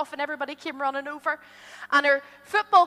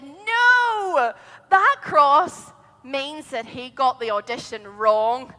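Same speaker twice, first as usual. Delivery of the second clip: slow, patient mum; mummy explaining; 5 dB louder, much slower than usual. Acted. Mummy explains to Jessica, slow and patient. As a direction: spell it out for a little girl.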